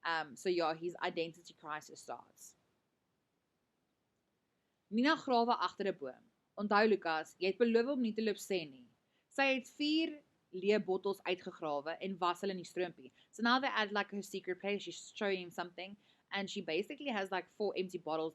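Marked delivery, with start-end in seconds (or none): 4.9-13.1 clear, lightly voiced read-aloud of the novel's dialogue; reading a story aloud. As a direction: read the passage to the class. Reads passage from novel.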